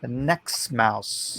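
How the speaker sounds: slow mumbled marbles-in-mouth voice. Real, not acted. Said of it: "you sound like you got marbles in your mouth".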